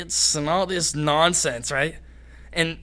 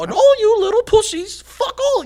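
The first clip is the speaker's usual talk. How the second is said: very high, loud squeaky imitation; mock screaming like a tiny squeaker; Mickey Mouse squeak; 8 dB louder than usual. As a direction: squeal it like a little kid losing it. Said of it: "I sounded like Mickey Mouse".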